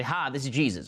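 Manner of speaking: lightly put-on Southern accent; Jesus with Southern accent. Mocking the idea Jesus talks to believers, light Southern accent. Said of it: "I don't know why he has a Southern accent either".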